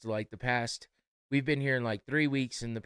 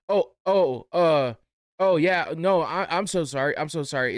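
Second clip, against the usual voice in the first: higher and louder, caught out and sorry; flustered apology; 5 semitones higher, 8 dB louder than usual. Retold or imitated. Caught cashier apologizing to the customer, flustered and high.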